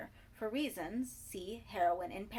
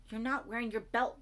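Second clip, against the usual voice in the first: rousing call; 3 semitones higher, 6 dB louder than usual. A narrator's reading. Rousing dazed Ricky.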